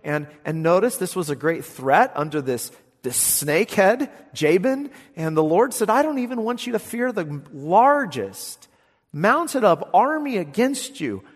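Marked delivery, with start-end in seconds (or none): 5.9-11.2 proclaiming loudly. Acted. Preacher voices the Lord's promise.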